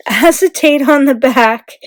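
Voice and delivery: sheepish laughing correction; laughing at the slip. Real, not acted. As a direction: laugh off the flub and say it again. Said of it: "oops, sorry".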